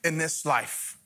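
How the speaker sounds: earnest spoken prayer to God. Acted. Pastor praying aloud for the church, earnest prayer. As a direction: pray it out over the room.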